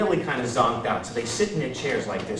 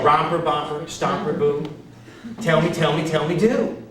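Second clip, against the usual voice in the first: lightly voiced show hostess; 2 semitones higher than usual. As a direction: chant it like a children's show hostess. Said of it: "she used to go".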